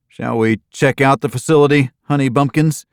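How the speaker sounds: mock-sweet wife teasing her husband; sugary wife voice. Jenny teasing with cute names.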